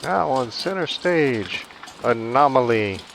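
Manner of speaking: slow, drawn-out stage announcer; club announcer voice. Pretend. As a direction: present her like a strip club MC.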